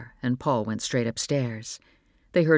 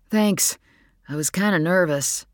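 put-on teenage son; 4 semitones higher, 3 dB louder than usual. Teen son answers father.

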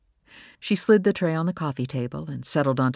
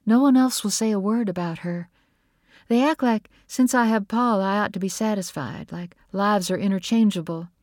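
lightly voiced grieving mother, pitched up; hurt, protesting Nora; 6 semitones higher, 3 dB louder than usual. A narrator's reading. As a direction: protest with a touch of hurt, higher.

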